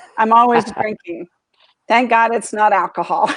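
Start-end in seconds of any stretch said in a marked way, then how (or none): 1.9-3.3 speaking through laughter. Speaker answers a question about how much they drink, laughing.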